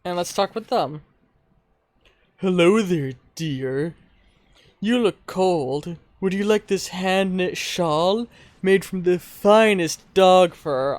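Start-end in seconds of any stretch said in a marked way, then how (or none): 2.4-11.0 put-on slow, sweet old lady offering a shawl; kindly old woman, slowed and sugary; old crafter lady. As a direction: coax like a kindly grandma.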